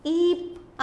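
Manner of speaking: ईप with a long, held ई; long vowel. Shown as a demonstration. Teacher isolating the long sound for children, ईप drawn out. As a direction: stretch the ई in ईप. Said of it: "ई का sound आ रहा है".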